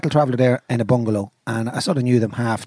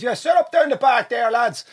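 barman voice; 8 semitones higher than usual. Retold or imitated. Barman telling band where to sit.

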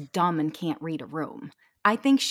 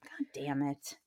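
whispered curse; 6 semitones lower, 10 dB quieter than usual. Real, not acted. Muttered frustration.

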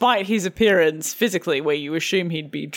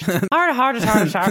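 Irish practice; slower than usual. Shown as a demonstration. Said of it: "how the fuck do you do Irish?".

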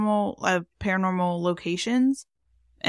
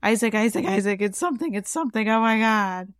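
retold panic; 2 semitones higher than usual. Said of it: "I started feeling that chaotic energy and I was like".

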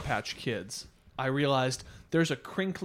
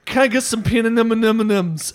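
tongue-tied, words mashed together; garbled order; 5 semitones higher, 9 dB louder than usual. Retold or imitated. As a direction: stumble through the order. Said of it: "that's how it comes out".

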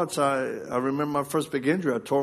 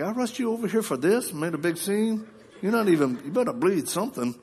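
higher-pitched indignant scolding; imitating mad wife; 6 semitones higher than usual. Wife scolds husband she rushed to hospital, mock indignant. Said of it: "my wife is mad".

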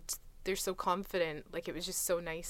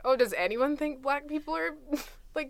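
rhetorical exasperation; 8 semitones higher, 7 dB louder than usual. Retold or imitated. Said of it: "it's kinda like".

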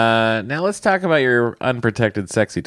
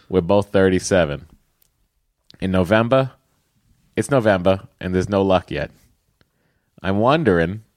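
put-on Boston accent. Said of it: "read it with a Boston accent".

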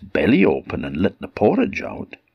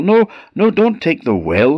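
high frantic pleading; panicked squeal; 12 semitones higher, 5 dB louder than usual. Acted. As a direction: beg him in alarm. Troll panicking.

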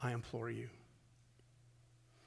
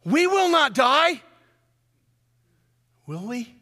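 urgent plea; 6 semitones higher, 5 dB louder than usual. Retold or imitated. Quoting Habakkuk's plea.

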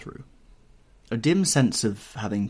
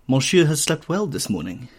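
higher-pitched smiling greeting; 4 semitones higher, 4 dB louder than usual. A narrator's reading. Valet greeting his young master on waking, smiling. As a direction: say it with a light smile. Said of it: "he said, smiling".

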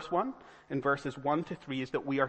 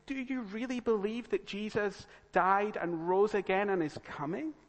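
mildly incredulous questioning, pitched up; sceptical scoffer; 4 semitones higher than usual. Acted. Scoffers questioning a churchgoer's faith, mildly scornful. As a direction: challenge them with a touch of scorn. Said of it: "when you meet scoffers".

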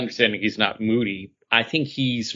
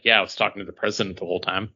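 quick fib; 4 semitones lower, 4 dB quieter, much faster than usual. Retold or imitated. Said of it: "being like".

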